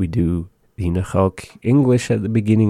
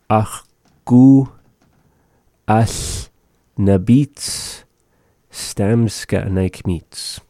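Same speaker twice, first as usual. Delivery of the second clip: "Ach, ku as na bits stamska naik mit" with pauses between words; 2 semitones higher, much slower than usual. Shown as a demonstration. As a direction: break the phrase apart slowly for learners. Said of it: "word by word teaching".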